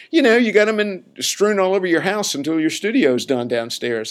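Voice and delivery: high, loud imitation of an amused friend; imitated teasing explanation. Imitating friend explaining her joke about instruments, teasing insistence. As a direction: pitch it up, insistently spelling out the joke.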